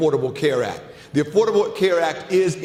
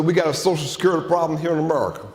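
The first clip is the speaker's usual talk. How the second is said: quick, lightly put-on Texas twang, fast; Bush Texas twang; much faster than usual. Speaker imitating the president on Social Security, light Texas twang. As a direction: rattle it off in a faint Texas twang. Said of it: "I wish I could do a Texas twang".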